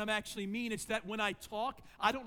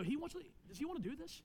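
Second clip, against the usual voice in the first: rising anger; 7 semitones higher, 4 dB quieter, faster than usual. Retold or imitated. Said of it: "there was this anger riding up and go".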